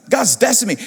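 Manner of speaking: "God's destined me" declared with conviction; with spunk. Shown as a demonstration. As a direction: say it like you really believe it. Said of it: "you gotta say it with some, some spunk in you".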